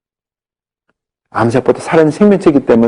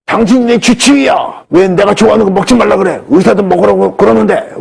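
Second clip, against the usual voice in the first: angry retort; 7 semitones higher than usual. Retold or imitated. Patient scolding doctor over phone.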